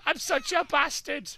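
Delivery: high, loud gleeful gloat; high, loud gloating at the beaten enemy; gleeful boasting. Real, not acted. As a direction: crow about the hit. Gloating after a kick.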